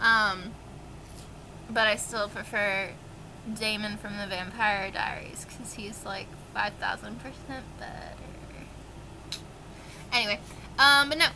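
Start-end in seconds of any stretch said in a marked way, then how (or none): 3.5-8.2 soft conspiratorial whisper; whispered aside. Real, not acted. Booktuber whispering her favourite Damon. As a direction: lean in and whisper it. Confiding preference for another Damon.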